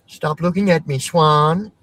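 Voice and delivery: lightly hammed movie line; Billy Madison quote. Quoting Billy Madison to chat, mock annoyed. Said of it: "Billy Madison fucking reference".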